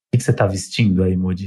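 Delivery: deep flirty phone voice; low teasing late-night call voice; vozeirão. Pretend. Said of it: "Ai, que vozeirão". (voz grave de paquera na ligação)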